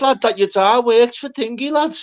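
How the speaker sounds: high, laughing disbelief at the mate; laughing question. Retold or imitated. Friends ask, laughing.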